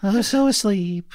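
high, slow, laughing through it; badly faked sleeping claim; pretend sleep. Faking sleep while laughing.

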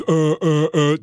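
mock doddering old man's stammer; lightly voiced doddering old fool. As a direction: stall on each uh like a confused old man. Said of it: "doddering old fool routine".

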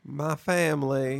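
drawn-out put-on Southern accent; slow mock Southern drawl; Brian Kelly. Podcast host mocking a coach's fake accent, slow put-on Southern drawl. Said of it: "in a Brian Kelly accent".

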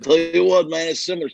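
lightly voiced football coach impersonation; John Gruden. Shown as a demonstration. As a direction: lightly put on the coach's catchphrase voice. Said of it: "John Gruden".

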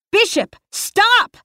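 high, loud, slow call after him. Acted. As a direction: shout after him down the hall. Calling after Bishop.

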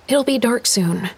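put-on a curious girl asking Dad; young girl's voice. Girl warns Lydia.

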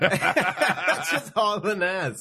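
laughing hard, high and slow. Real, not acted. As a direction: crack up while saying it. Laughing at the story.

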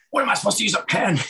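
high-pitched incredulous imitation; mock sarcasm. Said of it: "they gave me all the sarcasm".

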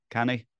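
Scots "canny" in place of can't; lightly Scottish "canny". Shown as a demonstration. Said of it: "they say".

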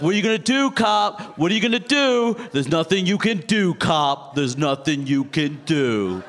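taunting singsong, starting high and slowing down; imitating a stoned, defiant friend. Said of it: "he was obviously very high at the time".

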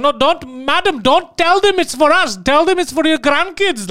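high, urgent scammer impression; hammed-up pleading, pitched well up. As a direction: mock-desperate phone scammer. Acting out a scammer's panicked plea.

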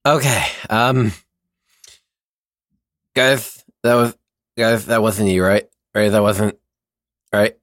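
speaking with tongue sticking out; blurred words past a tongue held out; tongue half out. Real, not acted. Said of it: "talk with my tongue half sticking out".

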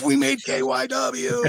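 high, slow delighted exclaim with a laugh; thrilled. Retold or imitated. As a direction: savour the big news with a laugh. Thrilled at being on radio news.

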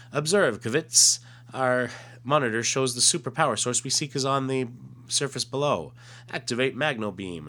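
lightly voiced alien officer giving orders; alien commander. Reads alien's comic dialogue.

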